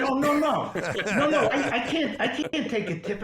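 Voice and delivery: high, laughing mock protest; imitating the gas station guy with a laugh; laughing refusal. Imitating the attendant who refuses a tip, laughing.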